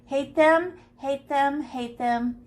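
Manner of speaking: playful grumble trailing off; mock annoyed, fading. Shown as a demonstration. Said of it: "I hate these marks".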